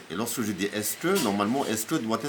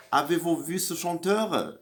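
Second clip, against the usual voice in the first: higher example voice, falling on chanteur; inverted question; 6 semitones higher than usual. Shown as a demonstration. Teacher reading an inversion example to the class, higher pitch. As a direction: read the formal question cleanly. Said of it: "comme vous voyez".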